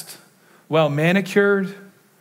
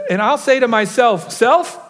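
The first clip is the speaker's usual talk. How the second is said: self-talk voice; 4 semitones higher, 3 dB louder than usual. Retold or imitated. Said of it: "And so he says".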